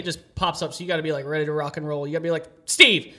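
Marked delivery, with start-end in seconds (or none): 2.7-3.2 loud, high, bright "Steve!" with a laugh; mock-friendly phone shout; cheery call-out. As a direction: call out the name like greeting an old friend. Acting out greeting a debtor.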